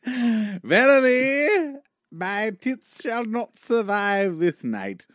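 slow, grand mock Shakespeare; drawn-out theatrical recitation; hammy stage actor. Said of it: "is that a rock star or Shakespeare".

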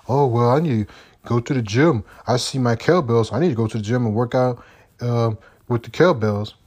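a lightly voiced lazy guy making excuses; mock a lazy excuse, only lightly put on; lazy excuse-maker. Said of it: "I don't wanna be like".

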